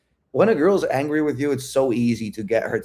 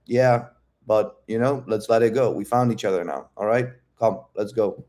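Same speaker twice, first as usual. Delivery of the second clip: unhurried, even reassurance; calm, grounded. Retold or imitated. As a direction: gently take the lead. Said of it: "I'm calm, I'm grounded".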